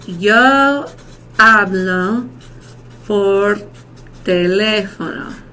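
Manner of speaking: slow, with pauses between words. Shown as a demonstration. Teacher models a present tense example to class, word by word. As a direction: model the phrase slowly, word by word.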